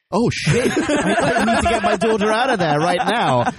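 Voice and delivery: mock panic. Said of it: "he's like".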